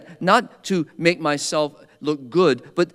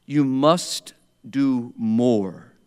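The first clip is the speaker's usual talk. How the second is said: stern rebuke; 2 semitones lower, much slower than usual. Retold or imitated. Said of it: "very strongly".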